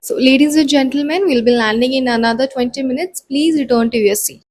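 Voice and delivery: a soothing cabin announcement; calm measured announcement. Shown as a demonstration. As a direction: take your time like a calm flight attendant. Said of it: "completely different emotions".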